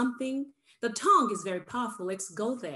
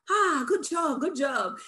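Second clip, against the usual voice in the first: higher, louder opening, easing off; imitated praising dad; 5 semitones higher, 4 dB louder, slower than usual. Dad praising speaker's new words, mock pleased. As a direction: act out a dad's pleased praise. Acts out dad's praising reply.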